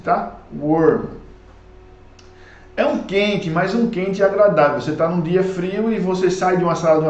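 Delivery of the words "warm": "Warm." with a clearly falling tune; falling intonation. Shown as a demonstration. Teacher models for students, "Warm." with a falling tune. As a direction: let "Warm." fall steeply. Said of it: "Essa entonação é bem decrescente".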